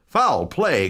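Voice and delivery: high startled exclamation; shocked cry. A narrator's reading. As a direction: gasp it out in shock. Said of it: "cried the lawyer".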